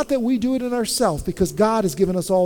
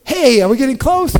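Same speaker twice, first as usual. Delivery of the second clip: weary hiker; 5 semitones higher, 7 dB louder than usual. Retold or imitated. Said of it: "And then we go".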